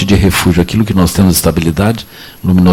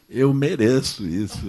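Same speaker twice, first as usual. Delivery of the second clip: higher, slow, put-upon sigh of a complaint; mock self-pity; 5 semitones higher, 10 dB quieter, slower than usual. Frustrated parent grumbling at a crying child, mock self-pitying. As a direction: play the martyr parent, lightly.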